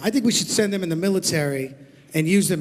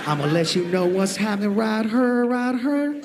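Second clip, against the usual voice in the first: rapper slang voice; 3 semitones lower than usual. Pretend. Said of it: "in his hip-hop talk".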